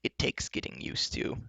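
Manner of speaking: soft, understated reasoning; lightly voiced enchantress, soft and reasonable. Enchantress persuading her captives, mildly reasonable. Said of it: "said reasonably".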